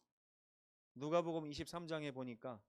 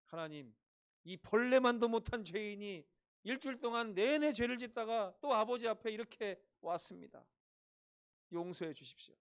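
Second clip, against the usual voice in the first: loud, higher, hammed-up groveling prayer; mock pious prayer; 5 semitones higher, 6 dB louder than usual. Pastor mocking a Friday deacon's prayer, hammed-up loud pleading. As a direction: parody a deacon's self-abasing prayer, louder. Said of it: "가장 듣기 싫은 기도".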